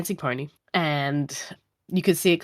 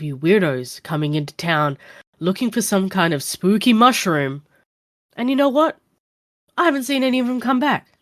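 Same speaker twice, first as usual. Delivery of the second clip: exasperated warning, pitched up and louder; bartender scolding; 4 semitones higher, 5 dB louder than usual. Acted. Bartender warns a stranger off the swamp, exasperated. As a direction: scold the fool heading for the swamp. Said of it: "shake his head and be like".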